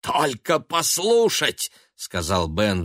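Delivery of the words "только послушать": high, slow withering sneer; mock her, dripping contempt; withering mockery. A narrator's reading. Son sneering at his mother's thrift. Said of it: "с уничтожающим смехом".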